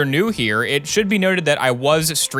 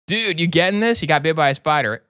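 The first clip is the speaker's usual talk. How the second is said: high, eager crew guy; excited; 4 semitones higher than usual. Acted. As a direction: urge the cameraman on. Voicing the excited crew member.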